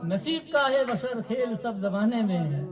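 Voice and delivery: measured Urdu verse delivery, falling line ends; poetry recitation. Acted. Poet reciting his couplets to a mushaira audience, measured recitation. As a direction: recite the couplet in set phrases with pauses.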